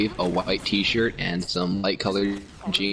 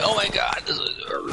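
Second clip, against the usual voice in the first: whispered awe; 13 semitones higher than usual. Retold or imitated. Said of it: "And I'm like".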